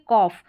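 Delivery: "कॉफ" ending in an f sound; "ough" as off. Shown as a demonstration. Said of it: "इसको कॉफ करके पढ़ेंगे".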